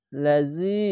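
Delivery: লাজি with a drawn-out ending; long vowel. Shown as a demonstration. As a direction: hold the final i of লাজি for one count. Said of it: "এক আলিফ টেনে পড়বেন". (লাজি-র শেষের ই এক আলিফ টেনে)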